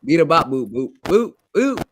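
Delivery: beeping robot noises. Pretend. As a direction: chirp it like a little robot. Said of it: "you sound like a robot".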